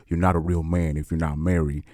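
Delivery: low, soft, flat monotone preaching; monotone preacher impression. Mocking a smooth-talking pastor with his low monotone. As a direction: drone it like a slick pastor. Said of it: "he talks like this".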